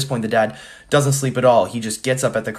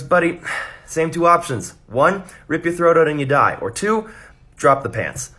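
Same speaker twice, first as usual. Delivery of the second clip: bear voice; 5 semitones higher than usual. Retold or imitated. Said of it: "the bear goes".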